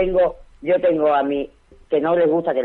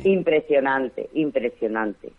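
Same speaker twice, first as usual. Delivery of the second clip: slow emphatic awe; 3 semitones lower, much slower than usual. Real, not acted. Guest recalling a packed inauguration.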